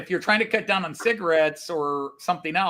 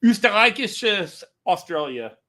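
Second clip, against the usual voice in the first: a lightly put-on Austrian accent, "Österreichisches" said as in German; 3 semitones higher, 4 dB louder than usual. Shown as a demonstration. Co-host says the German name in a light Austrian accent. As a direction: say "Österreichisches" like an Austrian would, R rolled. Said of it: "we gotta say it with the Austrian accent".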